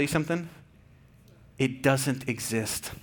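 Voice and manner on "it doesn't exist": hushed reveal. Acted. Preacher revealing hard truth.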